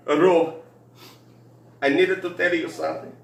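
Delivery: imitating a drunk coworker opening up; drunk Jose. Boss confiding drunk to Ro, in a mock drunk Mexican accent. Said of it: "He says".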